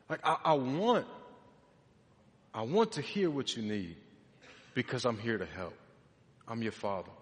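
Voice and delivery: low, soft, tender assurance; reassuring father. Retold or imitated. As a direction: gently let the child know you're there. Reassuring father speaking to his child.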